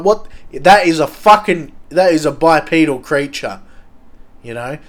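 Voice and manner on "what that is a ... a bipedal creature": louder, excited alarm. Retold or imitated. Around the campfire, hearing the bushes, louder excited alarm. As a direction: blurt out the sighting in mock alarm. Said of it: "I'm like".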